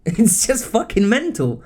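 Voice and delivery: real laugh of exasperation; laughing disbelief. Real, not acted. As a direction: laugh it out, incredulous. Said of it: "I just don't know what to say".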